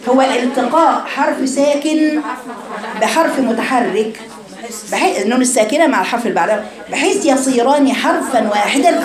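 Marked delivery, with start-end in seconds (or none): 0.1-4.2 slow, deliberate dictating pace; slow dictation. Shown as a demonstration. Teacher dictating the definition slowly to students. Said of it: "dictates definition slowly". 6.9-9.0 slow, measured dictation. Shown as a demonstration. Teacher dictating the rule slowly to her girls. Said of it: "dictates definition slowly".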